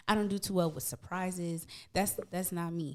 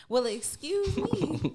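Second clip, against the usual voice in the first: slow, prim "excuse me"; mock offended; 10 semitones higher, 5 dB louder, much slower than usual. Real, not acted. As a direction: drag it out, pretending to be offended. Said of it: "Trey, we on the podcast".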